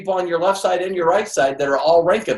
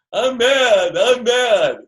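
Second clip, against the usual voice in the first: mock mad; 7 semitones higher, much slower than usual. Upset distributor mocked.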